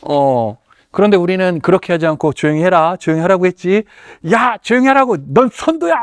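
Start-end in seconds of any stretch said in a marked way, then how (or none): 2.3-3.8 mock stern scold. Shown as a demonstration. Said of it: "막 이렇게". 4.3-5.9 mock angry yell. Shown as a demonstration. Teacher losing it at a chattering student, hammed-up yell. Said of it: "막 이렇게".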